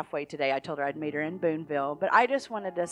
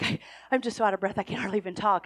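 breathless squealing; faster than usual. Retold or imitated. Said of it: "she was squealing".

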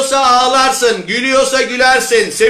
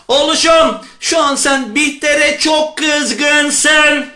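slow, drawn-out motherly voice, pitched higher; empathetic mother; 4 semitones higher, slower than usual. Acted. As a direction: stretch each word as an understanding mother.

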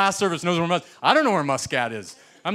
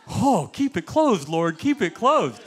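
mock prayer; 3 semitones higher, slower than usual. Praying to the Lord the airport stays shut, slow pleading. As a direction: beg the Lord slowly, hands clasped.

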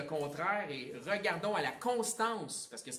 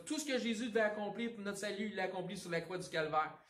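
higher, emphatic mock preaching of the line; mock preacher; 5 semitones higher than usual. Preacher imitating other preachers, mock pulpit proclamation. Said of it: "les prêcheurs prêchent ça".

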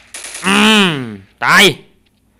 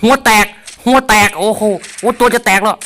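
higher, louder excited calls; hyped yelling; 8 semitones higher, 4 dB louder than usual. Real, not acted. Gamer hyped on headshots, John Wick style, loud. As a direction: pump up on each headshot.

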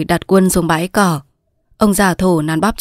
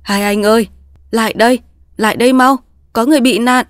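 higher, quickened call for help; urgent calling; 3 semitones higher than usual. Acted. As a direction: hurriedly call two men over. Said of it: "Ông vội vàng kêu lên". (vội vàng kêu cứu)

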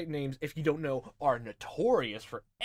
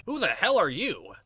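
loud, higher outburst; startled challenge; 6 semitones higher, 9 dB louder than usual. Acted. Detective surprised by intruders, loud indignant challenge. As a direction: demand it loudly, taken by surprise.

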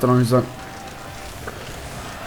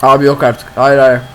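talking while chewing gum; words around chewing gum; 6 dB quieter than usual. Real, not acted. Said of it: "Videoda sakız çiğnemek".

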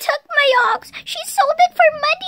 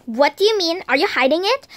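suspicious mom voice; 9 semitones lower, faster than usual. Pretend.

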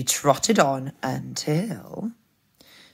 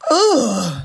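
high exhausted "ooh"; gasp, then deflate; winded storybook wolf; out-of-puff groan; 6 semitones higher, 6 dB louder than usual. Acted.

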